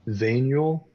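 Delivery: one word at a time, clearly separated; staccato. Shown as a demonstration. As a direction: say each word alone for the class to repeat. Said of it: "one word at a time".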